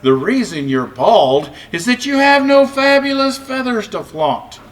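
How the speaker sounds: lightly voiced proud cock; proud rooster. A narrator's reading. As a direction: crow it like a show-off rooster. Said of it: "a voice replied".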